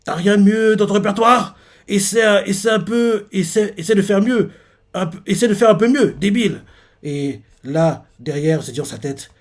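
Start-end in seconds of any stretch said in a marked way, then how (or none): 0.0-6.6 voix plus aiguë, un peu plus forte, qui nargue; le pousser à mieux insulter; provocation moqueuse. Retold or imitated. AAC provoque, dispute jouée. (provocation moqueuse à voix plus aiguë)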